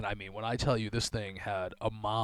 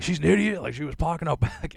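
dad's retort; 7 semitones higher, 6 dB louder than usual. Retold or imitated. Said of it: "And my dad's like".

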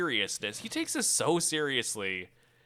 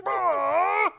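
high mock scream; hammed-up shriek; high panicked yelp; 5 dB louder than usual. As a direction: yelp and flee. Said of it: "he's just like".

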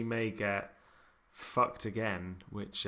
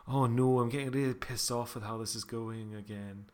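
badly attempted Scottish accent. Co-host imitates Laura on the show, bad Scottish accent. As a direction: have a poor go at sounding Scottish. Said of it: "That was a really bad accent as well".

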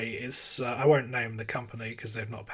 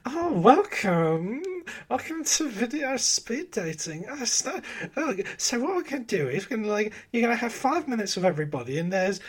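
cheesy host voice; 7 semitones higher than usual. Retold or imitated. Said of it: "They were just very much like".

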